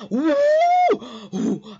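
high cheering whoop; imitated crowd cheer. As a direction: whoop like an excited classroom. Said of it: "everybody was like".

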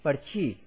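"parchi" with r sounded before the ch. Shown as a demonstration. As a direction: say "par-chee", r closing the first syllable. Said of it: "is read like".

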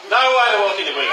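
fast laughing insistence; emphatic repeat. Real, not acted. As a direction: hammer the point home with a laughing shout. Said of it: "repeats line louder, laughing".

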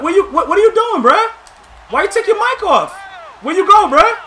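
real shout at the opponent who left; calling out. Real, not acted. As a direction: shout into the headset. Mic cut off, calling out.

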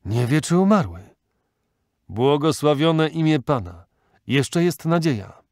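relieved, rising joyful cry; joyful exclamation. Acted. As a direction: cry out as hope returns. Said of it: "a nareszcie zawołał".

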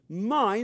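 "my" leaned on and held; stress on my. Shown as a demonstration. Preacher stressing "my" to the church, weighted. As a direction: press the word "my". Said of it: "listen to the word".

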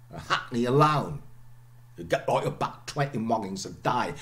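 lightly voiced Cockney, glottal stops kept; a modest try at Cockney; lighter Cockney attempt. Shown as a demonstration. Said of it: "I'm not a Cockney, I try".

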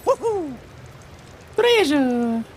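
excited cheer. Real, not acted. Spotting treasure, cheering.

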